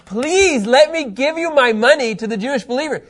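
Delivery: acted earnest pleading; begging. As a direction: beg them to accept it. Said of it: "I don't know what's begged".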